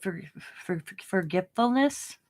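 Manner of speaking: repeating the first sound; stuttering on the word. Real, not acted. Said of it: "I noticed I'm stuttering".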